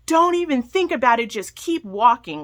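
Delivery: imitating a rude attendant shouting; mock yell of a pool attendant; retold yell. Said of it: "this pool attendant yells at me".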